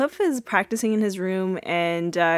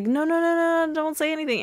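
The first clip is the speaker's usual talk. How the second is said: higher, hurried mock hush; a lightly voiced hurried hush; 9 semitones higher, faster than usual. Claire hushing Cliff, a hurried higher mock hush. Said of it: "she's like".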